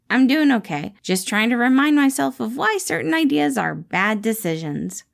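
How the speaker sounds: lightly voiced guarded employee; a hint of Remus, hiding his feelings. Remus answers his boss, lightly voiced and guarded.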